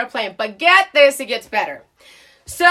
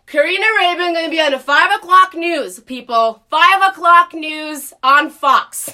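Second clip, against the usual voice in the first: louder announcing yell; retold yell, slowing on the last words; yelling at the top of lungs; 4 semitones higher, 4 dB louder than usual. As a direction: bellow a threat to the whole plane. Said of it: "screaming at the top of my lungs".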